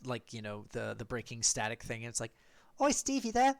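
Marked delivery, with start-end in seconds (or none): 2.8-3.5 high, loud hail to a teammate; calling over radio. Acted. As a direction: call out, trying to raise someone. GM voices radio call to Steve.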